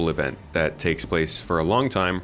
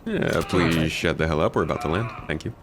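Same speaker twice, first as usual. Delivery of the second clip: airline pilot voice. Pretend. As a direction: talk like a pilot on the intercom. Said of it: "You're cracking out the airline pilot voice".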